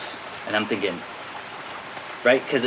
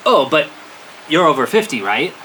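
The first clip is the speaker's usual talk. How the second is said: lightly acted leading question; hinting. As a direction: drop a helpful hint. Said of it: "they didn't get the hint".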